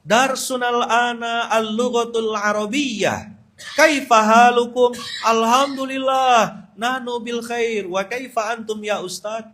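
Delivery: high, drawn-out pupils' chant; whole class answering. Retold or imitated. Pupils all answering the ustadz, imitated high sing-song recitation. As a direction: recite it slowly like a class in chorus. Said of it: "Budak-budak semua satu kelas tuh jawab".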